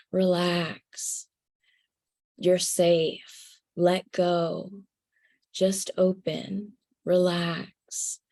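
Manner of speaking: calm a frightened listener gently; soothing inner voice, unhurried. Retold or imitated. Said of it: "in this very soothing voice".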